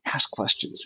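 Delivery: hushed whisper to the guy beside you; a secret whispered tip in formation. Retold or imitated. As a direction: whisper the tip so the drill can't hear. Whispering tip to peers in line.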